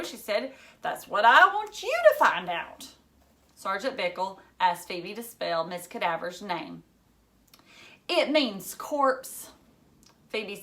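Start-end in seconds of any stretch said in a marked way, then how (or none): 0.8-2.9 put-on higher, louder insistent girl; a pushy young girl, louder. Phoebe demands. 8.1-9.5 put-on slow, higher, deliberate girl; slow pointed girl voice; slow explaining. Phoebe explains slowly.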